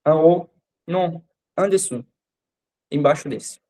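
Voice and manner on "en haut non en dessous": En haut drawn out slowly while pointing; slow it down so the baker follows; slow, deliberate directions. Shown as a demonstration. Customer pointing out cakes to the baker, slow and deliberate. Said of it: "você vai apontando e falando".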